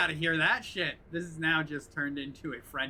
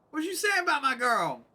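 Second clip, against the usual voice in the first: mock tough guy; 8 semitones higher than usual. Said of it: "repeats as a put-on voice".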